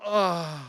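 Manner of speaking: drawn-out guilty "ugh"; comic groan of regret; remorseful groan. Retold or imitated. Remorse at finding the generous tip.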